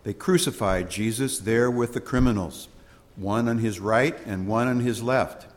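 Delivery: measured, ceremonial scripture read; solemn Gospel reading. Acted. Priest reading the Gospel aloud to the congregation, solemn.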